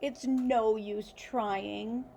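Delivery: a touch of sobbing, slow; slow, lightly tearful plea; mild sob. Acted. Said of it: "sobbed Zero".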